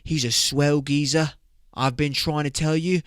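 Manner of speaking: lightly voiced British sister; mock British accent. Sister vouches for the guy, mock British accent. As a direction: vouch for him in put-on British. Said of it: "and my sister's like".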